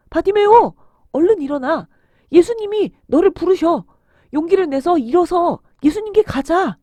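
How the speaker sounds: loud, eager call; urging encouragement. Acted. Bystander tells the beggar Jesus is calling, urging encouragement. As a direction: rouse him to get up. Someone urges the beggar to get up.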